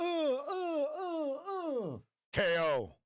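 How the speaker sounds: high, stretched-out slow-motion groans ending in K O; slow motion grunts. Pretend. Streamer acting out being knocked out in slow motion, hammed-up groans. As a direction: drag the hit out like a slowed-down replay, then call the knockout. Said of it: "And I'd do that slow motion".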